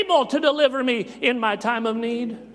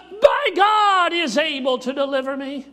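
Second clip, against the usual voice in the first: shouted back up; 2 semitones higher than usual. Acted. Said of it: "shouts back up".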